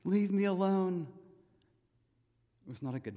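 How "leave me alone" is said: higher, drawn-out mock outburst; defiant denial. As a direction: push him away like Peter denying Jesus. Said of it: "all these cuss words saying".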